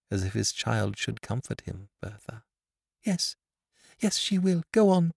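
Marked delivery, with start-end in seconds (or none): 3.0-5.1 put-on high, urgent girl's voice; eager blind girl. A narrator's reading. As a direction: urge her friend to continue. Blind girl urges Dot on.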